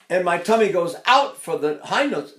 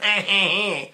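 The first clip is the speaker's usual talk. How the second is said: short, higher mock baby bleat; imitated baby cry; 4 semitones higher than usual. Shown as a demonstration. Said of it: "although they sound like".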